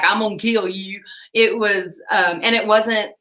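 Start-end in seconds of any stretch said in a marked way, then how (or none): 0.0-1.0 put-on Texan accent. Imagining a Texan caller threatening her, mock Texan accent. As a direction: say it like a Texan local. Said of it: "it wasn't some Texan around the corner".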